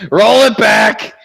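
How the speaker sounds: shouting through laughter; loud, slow laughing yell. Real, not acted. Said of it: "laughing shout".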